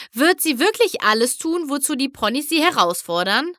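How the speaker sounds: high-pitched, eager wondering; excited question. Acted. Excited pony in crowd asks. (aufgeregte, staunende Frage)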